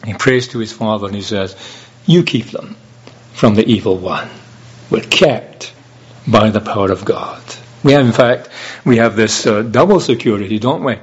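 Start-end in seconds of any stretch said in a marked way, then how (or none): 2.0-11.0 emphatic preaching. Acted.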